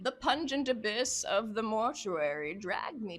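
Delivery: theatrical horror-journal reading; dramatic narration. Acted. Investigator describes opening the tomb, dramatic narration. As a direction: relish each foul detail.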